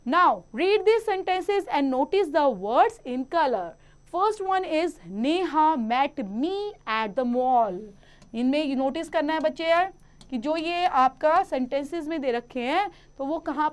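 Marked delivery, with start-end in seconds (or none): 0.1-7.8 slow, deliberate reading of example sentences; textbook read-aloud. Acted. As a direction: read each sentence out slowly for young pupils. (बच्चों के लिए धीरे-धीरे वाक्य पढ़ना)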